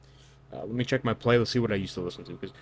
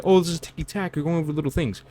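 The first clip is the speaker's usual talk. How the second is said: higher, whiny voice of a doubting viewer; dismissive imitation of a viewer; mock objection; 8 semitones higher, 4 dB louder than usual. Viewer brushing off the point, high and whiny. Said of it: "some of you may say".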